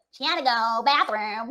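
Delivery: mild mock sneer of a stern matron; lightly mock the girl's need, mild put-down; a hint of Carol Burnett's mocking tone. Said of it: "like, in a mocking tone".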